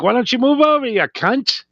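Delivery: lightly acted, high-pitched demand to move; Jim Jeffries. Comedian to plane passenger, mock annoyance. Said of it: "Jim Jeffries did ... And he's like".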